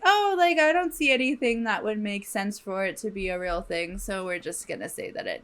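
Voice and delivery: a hammed-up shrug of an official brushing it off; mock dismissive officials. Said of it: "it was again like".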